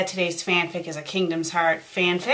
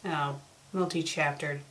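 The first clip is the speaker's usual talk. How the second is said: ordinary talk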